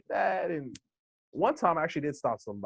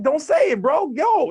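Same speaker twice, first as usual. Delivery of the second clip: firm warning; 11 semitones higher, 8 dB louder, slower than usual. Retold or imitated. Confronting the men in the mall.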